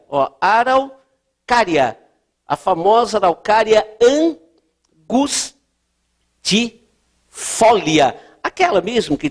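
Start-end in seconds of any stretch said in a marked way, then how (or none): 0.4-2.0 ARAUCÁRIA slowly split in two chunks; dictation pace. Real, not acted. Dita o nome enquanto escreve. 5.1-8.1 ANGUSTIFOLIA in very slow, isolated syllables; sílaba por sílaba. Real, not acted. Dita o termo enquanto escreve.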